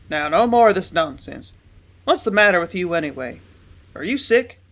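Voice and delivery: loud, impatient father; sharp fatherly rebuke; stern scolding. A narrator's reading.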